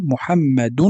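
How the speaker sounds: "محمد" ending in -dun; damma tanween. Shown as a demonstration. Teacher showing tanween on names, damma tanween. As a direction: sound the final -un of "محمد". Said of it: "هذا هو ما يسمى بالتنوين".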